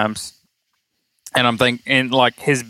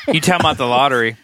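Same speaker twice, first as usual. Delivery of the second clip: laughing; much faster than usual. Real, not acted. Laughing while quoting the joke.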